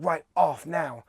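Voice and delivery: slow, clipped-out mock order; stern order. Driver ordering him off the bus, slow and stern. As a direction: spell it out slowly like a final warning. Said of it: "She's like".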